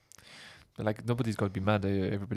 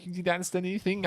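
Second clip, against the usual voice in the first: badly faked German hipster; terrible German accent; 7 semitones higher, faster than usual. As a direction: put on a hammy German accent. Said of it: "a terrible German accent".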